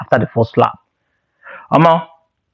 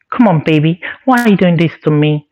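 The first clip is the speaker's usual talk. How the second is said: put-on girly voice. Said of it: "he's now speaking like a girl again".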